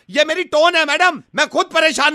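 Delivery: mildly argumentative protest; rude tone. Acted. Suitor defending his tone to the woman, mildly rude. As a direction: insist a little sharply that this is normal. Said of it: "आप इतना rudely क्यों बात कर रहे हो".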